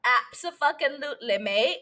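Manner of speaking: put-on English accent. Podcaster joking about her favorite UK show, English accent. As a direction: slip into a mock English accent. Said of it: "why I'm talking in that accent".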